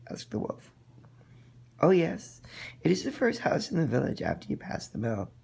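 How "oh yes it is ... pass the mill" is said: put-on bright, higher girl's voice; eager young girl answering; little girl voice.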